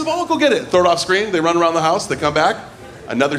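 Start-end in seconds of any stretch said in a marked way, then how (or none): 0.0-0.7 put-on dog baby talk. Dog channel voice throwing toy.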